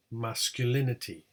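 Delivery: MASCULINITY with lighter MAS, main LIN; secondary stress. Shown as a demonstration. Teacher showing secondary stress at beginning, MAS then LIN. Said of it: "secondary word stress at the beginning".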